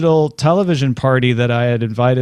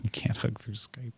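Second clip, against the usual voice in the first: unvoiced murmur to oneself; whisper; 16 dB quieter than usual. Real, not acted. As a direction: breathe the words out under your breath. Quiet aside to self.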